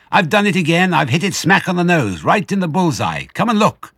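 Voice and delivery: high, loud, jubilant boasting; triumphant shout. A narrator's reading. Fox calls the others up to look, triumphant shout. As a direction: crow over a perfect hit, loud and high. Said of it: "he shouted, jumping up into the room".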